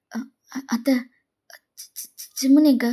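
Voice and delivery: flustered, halting, then blurting it out; panicked. Acted. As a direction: stumble over the words in panic. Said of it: "எதுக்கு இப்ப பதட்டமா பேசுற".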